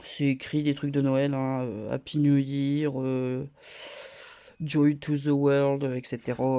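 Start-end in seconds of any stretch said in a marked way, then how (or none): 1.9-5.8 English read slowly with a French accent. Real, not acted. Vlogger with a cold reads out Christmas greetings, French-accented English. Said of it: "avec mon superbe accent anglais et le rhume".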